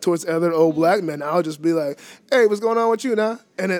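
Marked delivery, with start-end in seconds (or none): 2.3-3.4 put-on old neighbour's street accent, slightly higher. Shown as a demonstration. Greeting old Black men in other cities, put-on accent. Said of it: "I don't talk like that normally".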